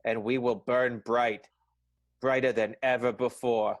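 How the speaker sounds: slow, solemn declaration; grand pledge. Acted. Keaton vowing to Juniper, slow grand declaration. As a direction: declaim it slowly like a vow.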